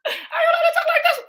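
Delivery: high, squealing through laughter; giggling the same question; laughing. Real, not acted. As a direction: laugh the line out in disbelief. Repeats the line laughing.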